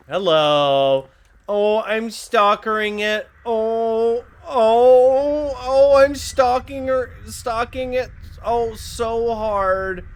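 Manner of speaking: high squeaky put-on voice; high-pitched goofy voice; silly character voice. Game character reaction, far voice.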